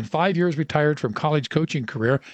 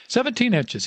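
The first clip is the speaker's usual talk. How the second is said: put-on old coach bellows it, pitched way up; bellowing confirmation; 8 semitones higher than usual. A narrator's reading. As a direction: boom it off the walls, much higher. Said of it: "his voice bellowing off the walls".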